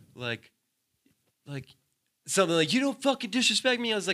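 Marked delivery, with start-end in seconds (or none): 2.7-3.9 very high, furious yelling. Retelling a bar fight, quoting the other man: imitating someone yelling. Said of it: "He starts yelling".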